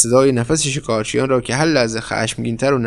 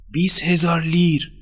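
higher-pitched, held-back restatement; insistent repeat; 6 semitones higher than usual. A narrator's reading. Fugitive confirming the bribe to the surprised woman, in a contained voice. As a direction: spell out the sum for her, not raised.

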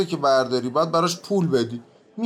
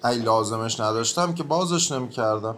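grumbling; 6 semitones lower than usual. Acted.

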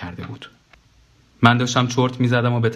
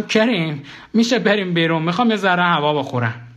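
higher, lightly voiced tired plea; weary request; 8 semitones higher than usual. The dead man asks Karim to step out for air, a bit higher. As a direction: ask gently to go outside.

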